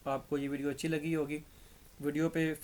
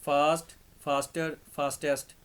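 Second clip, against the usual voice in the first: धीरे धीरे fast, faster; slow spelled-out degrees; 6 dB louder, much slower than usual. Shown as a demonstration. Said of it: "faster जो है वो क्या है". (धीमे-धीमे गिनाते हुए)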